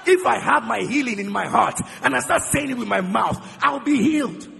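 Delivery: loud preaching shout, building fervour; booming sermon shout; shouted proclamation. Real, not acted. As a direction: proclaim it at full force to the congregation.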